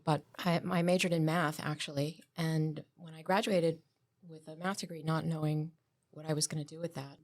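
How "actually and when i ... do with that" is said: soft, hushed library voice; librarian shush. Real, not acted. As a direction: keep it down like in a library. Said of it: "I'm using my librarian voice now".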